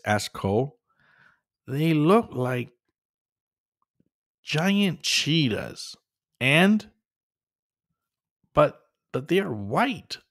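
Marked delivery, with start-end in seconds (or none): 1.7-10.2 slow, higher hesitant voice; hesitant, frightened. Acted. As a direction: Catface stammers in fear through the crack. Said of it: "added Catface Laguna".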